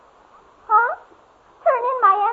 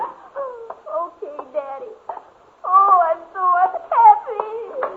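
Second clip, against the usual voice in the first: tearful whimper; much slower than usual. Acted. Girl crying, lets father in.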